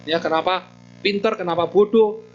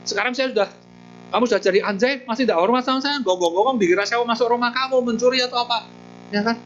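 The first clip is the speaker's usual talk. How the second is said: stern scolding monk; 4 semitones higher than usual. Acted. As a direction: lecture the dog like a disappointed master. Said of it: "Dia panggil Todea". (teguran biksu yang tegas dan pelan)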